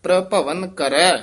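short stop after ਪ੍ਰਭਵਨ ਕਰੈ; pause after ਕਰੈ. Shown as a demonstration. Teacher demonstrates the ਠਮਕ after ਕਰੈ. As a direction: break briefly after ਕਰੈ. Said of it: "ਇੱਥੇ ਠਮਕ".

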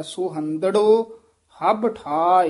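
measured phrase, ਸੋਹੰਦੜੋ drawn out, stop at ਠਾਇ; pause after ਠਾਇ. Shown as a demonstration. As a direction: rest fully after ਠਾਇ. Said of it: "ਇੱਥੇ ਵਿਸਰਾਮ".

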